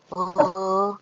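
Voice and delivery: stalling with repeated "eh" and pauses; filler-laden hesitation. Shown as a demonstration. Coach mimicking a student's filler-heavy presentation, halting. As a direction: stumble from one "eh" to the next. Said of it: "terlalu banyak filler wordnya".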